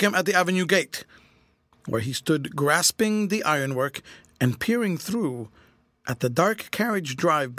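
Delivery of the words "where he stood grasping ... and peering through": usual speaking voice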